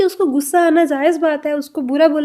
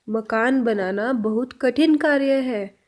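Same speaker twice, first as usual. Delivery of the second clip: slow repeat; slower than usual. Shown as a demonstration. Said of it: "next sentence".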